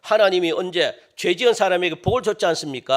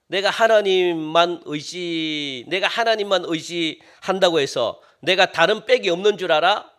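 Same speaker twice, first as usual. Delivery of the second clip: scoffing; slower than usual. Retold or imitated. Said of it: "이렇게 비웃는 겁니다".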